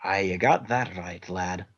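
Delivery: Scottish brogue with aye and lad; gruff Scottish interrogator, lightly done; Scottish accent. Acted. Interrogator pressing the spy in a light Scottish accent. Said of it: "continues Scottish character".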